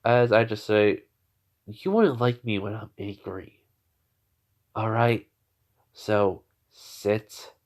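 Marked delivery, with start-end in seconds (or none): 1.7-7.5 quiet threat. Retold or imitated. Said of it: "as I'm glaring at him".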